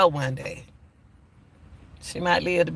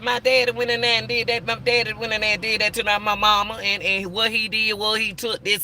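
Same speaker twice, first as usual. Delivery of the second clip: put-on higher, childlike retelling of a little girl; little girl's voice; 5 semitones higher than usual. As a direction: lightly voice the child telling what daddy did. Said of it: "She said, she said".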